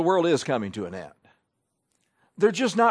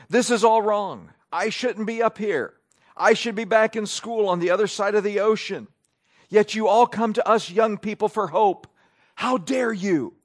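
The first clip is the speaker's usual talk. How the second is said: higher, emphatic mock-indignant speech; impassioned imitation; 5 semitones higher, 3 dB louder than usual. Preacher reading out a teenage activist's summit speech, mildly impassioned. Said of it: "she was impassioned".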